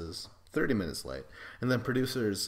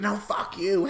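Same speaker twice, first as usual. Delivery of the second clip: mock diva retort; 10 semitones higher, 4 dB louder than usual. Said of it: "and then she's like".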